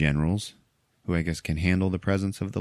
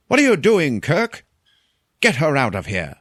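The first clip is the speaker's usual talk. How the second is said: mock angry shout; 8 semitones higher, 7 dB louder than usual. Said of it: "somebody's like".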